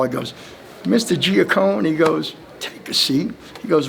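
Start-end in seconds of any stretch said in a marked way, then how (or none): 0.8-3.3 a light Southern drawl, slow and a bit higher on the name. Retold or imitated. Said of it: "in his strong Southern drawl".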